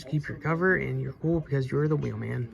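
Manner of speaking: winded from reading fast; short of breath, pushing through. Real, not acted. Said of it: "Damn, I'm out of breath".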